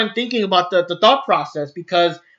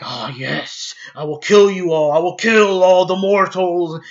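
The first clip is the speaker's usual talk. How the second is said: Goku Black; 2 semitones lower than usual. Retold or imitated. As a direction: imitate a menacing anime villain, pitched down. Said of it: "just regular Goku Black, he's all like".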